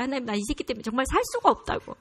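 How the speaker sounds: exasperated mock plea; retold cursing prayer. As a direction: rattle off a fed-up prayer. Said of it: "막 욕을 했었어요".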